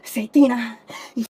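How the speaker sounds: furious yelling. Real, not acted. Cursing in patrol car.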